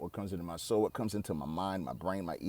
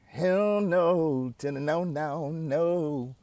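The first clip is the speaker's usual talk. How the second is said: emphatic hell no; 6 semitones higher, 4 dB louder, much slower than usual. Real, not acted. Emphatic denial, laughing it off.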